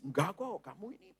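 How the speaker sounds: soft flattering murmur; mild devilish whisper, coaxing. Acted. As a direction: hush it into the listener's ear. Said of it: "itu iblis bisik-bisik".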